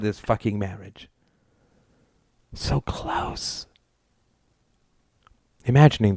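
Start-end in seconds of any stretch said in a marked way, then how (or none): 2.5-3.7 breathy whisper to oneself. A narrator's reading. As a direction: let it out as a soft whisper. The thought of near escape.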